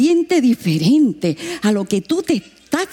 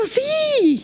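forced yes. Retold or imitated.

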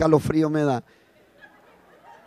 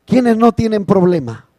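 louder challenge; 3 semitones higher than usual. Shown as a demonstration. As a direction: repeat it louder as a challenge to the congregation. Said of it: "ellos dijeron". (pregunta retadora más fuerte)

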